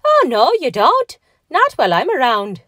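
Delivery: high, loud, feisty defiance; enraged refusal. A narrator's reading. Patrick refuses to let them build, enraged refusal. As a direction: forbid it in a little man's fury. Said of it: "jumping up and down in a purple rage".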